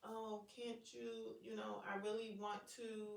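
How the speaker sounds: imitating a daughter's soft pleading; mock soft wheedling. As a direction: coax it out slowly like a child angling for a favor. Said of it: "all of the little softness".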